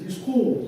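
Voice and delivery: "escort" said as "skort", weight on the end; wrong stress. Retold or imitated. Translator repeating himself to a puzzled Englishman, "escort" wrongly stressed as es-KORT. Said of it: "I put the stress on the second syllable".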